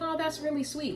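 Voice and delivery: high, soft coo; softly gush, retelling a fond reaction; mock-tender, lifted voice; touched cooing. Retold fond reaction to his kids.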